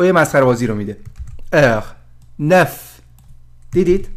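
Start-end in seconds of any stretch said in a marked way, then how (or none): 1.5-3.0 ار and نف with open French eu vowel; French eu sound. Shown as a demonstration. Teacher correcting herself, demonstrating French neuf carefully. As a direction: sound out ار then نف, lips rounded. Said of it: "صدای همین این ا".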